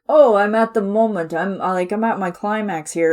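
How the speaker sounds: milk the big moment, hammed-up; mock triumphant villain. Voicing Jeff's Ursula at her peak, mock grandeur. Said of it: "it's like".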